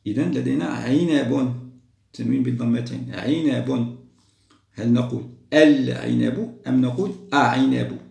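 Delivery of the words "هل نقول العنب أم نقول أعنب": العنب against أعنب, both said slowly and louder; teacher quizzing pupils on the article; pronunciation contrast. Shown as a demonstration. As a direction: offer العنب and أعنب as two clear choices. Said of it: "أحسن نقول العنب".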